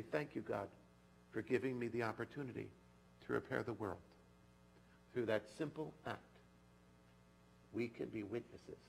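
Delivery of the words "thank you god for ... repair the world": prayer. Shown as a demonstration.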